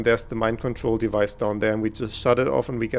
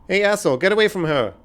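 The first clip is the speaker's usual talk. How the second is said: loud, higher, furious yell; angry shout; 7 semitones higher, 6 dB louder than usual. Acted. Warning the attacker away from her, angry shout. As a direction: yell to drive him off her.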